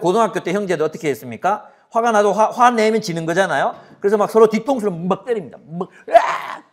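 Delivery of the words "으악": comic yell from a scuffle; mock fight yell. Boys hitting each other over the head, mock yell.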